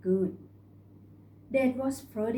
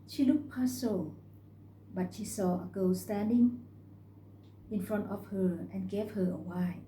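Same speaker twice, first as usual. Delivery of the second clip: ordinary delivery, nothing marked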